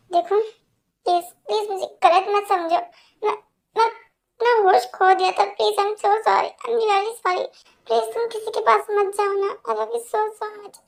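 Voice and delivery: desperate, weepy declaration of love; tearful apology. Acted. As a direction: beg forgiveness on the verge of tears. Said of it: "मेरे लिए रो रहे हो".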